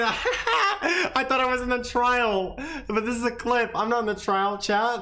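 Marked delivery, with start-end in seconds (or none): 0.0-2.6 laughing. Real, not acted. Laughing at own mistake.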